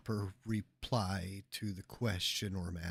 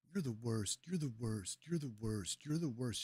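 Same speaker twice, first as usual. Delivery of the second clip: mimic of a repeating heckler; 4 dB quieter than usual. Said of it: "repeating the same thing over".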